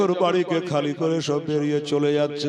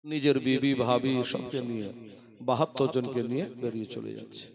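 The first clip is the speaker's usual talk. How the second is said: much lower, much softer sorrowful narration; hushed telling; 3 semitones lower, 10 dB quieter than usual. A narrator's reading. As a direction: drop the voice low as if grieving. Sorrowful departure told hushed.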